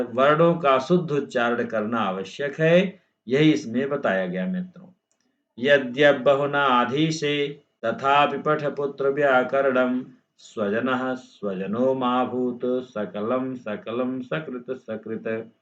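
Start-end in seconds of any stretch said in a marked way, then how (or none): 5.6-15.5 slow, measured chanting of a shloka; slowing into the last line of the verse; verse recitation. Acted.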